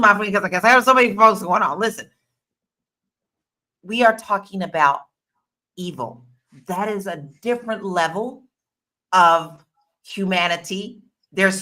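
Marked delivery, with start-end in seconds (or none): 5.8-6.3 evil dropped low and hushed; hushed ominous evil. Real, not acted. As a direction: let evil sink low and quiet. Dramatic word about Elon.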